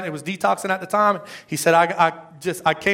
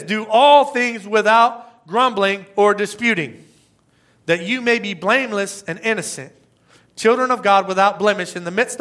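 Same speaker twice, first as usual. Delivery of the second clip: scripture reading; 4 dB louder than usual. Acted. Quoting scripture aloud.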